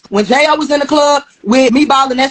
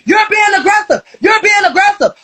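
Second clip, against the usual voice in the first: retold yell; 6 semitones higher than usual. Bystanders yelling in retold fight.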